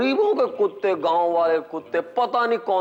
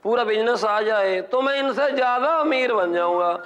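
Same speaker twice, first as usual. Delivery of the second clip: higher, a hint of a street vendor; boastful samosa seller; 5 semitones higher than usual. Samosa seller boasting to his friend, lightly voiced. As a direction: brag like a small-time vendor. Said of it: "समोसे बेचने वाला कह रहा था".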